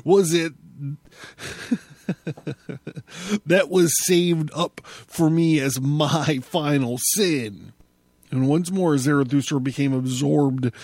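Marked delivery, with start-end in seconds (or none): 0.0-7.7 angry laughter. Acted. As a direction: laugh in furious disbelief. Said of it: "he laughed angrily at his own words".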